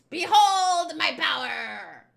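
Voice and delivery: slow, grandly stretched announcement; showman's proclamation. Acted. Castaway entertaining the pirates, grand drawn-out proclamation. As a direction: proclaim it, drawing out each word. Bon Clay announces his act.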